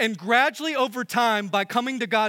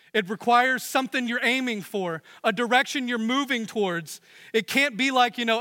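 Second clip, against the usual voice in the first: ordinary delivery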